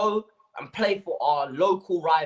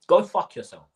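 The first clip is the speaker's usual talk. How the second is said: loud angry curse; 7 dB louder than usual. Real, not acted. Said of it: "look me in my eyes when I say this".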